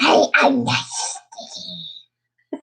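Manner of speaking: Batman voice. Acted. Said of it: "Is that your Batman voice or your Wolverine voice".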